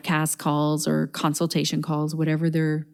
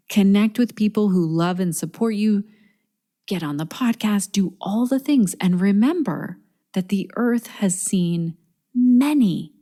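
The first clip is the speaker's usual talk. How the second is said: imitating English accent. Retelling friend Carol's pep talk, in a rough English accent. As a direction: lightly put on an English accent to voice a dear friend. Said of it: "beautiful English accent, and I'm butchering it".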